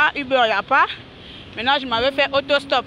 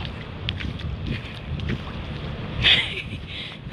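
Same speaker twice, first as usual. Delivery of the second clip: quiet laugh; 8 dB quieter than usual. Real, not acted. Laughing at herself in the rain.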